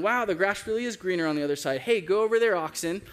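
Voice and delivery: quick, breezy farmer voice calling out "Hey, go over there"; careless ox owner. Acted. Preacher voicing an ox owner sending his ox to graze, breezy. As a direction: shoo the ox across the fence without a care.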